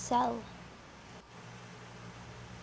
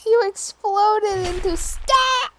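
laughing; 8 semitones higher, 9 dB louder, slower than usual. Real, not acted. Laughing at friend's death.

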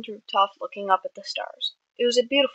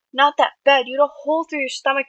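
raised, louder disbelief; incredulous protest; 6 semitones higher, 5 dB louder than usual. A narrator's reading. Friend protesting at injured boy playing down a wound, incredulous. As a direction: throw the words back in disbelief.

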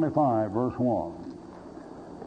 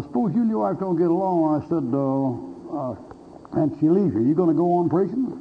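pointed hypothetical; 5 semitones higher than usual. Retold or imitated. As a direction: press him with the trap.

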